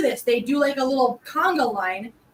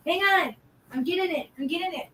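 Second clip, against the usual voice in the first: pet talk; 3 semitones higher, 5 dB quieter than usual. Real, not acted. Reassuring impatient cats.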